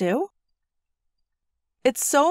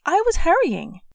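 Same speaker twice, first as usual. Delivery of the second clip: put-on upset child; 8 semitones higher, 3 dB louder than usual. A narrator's reading.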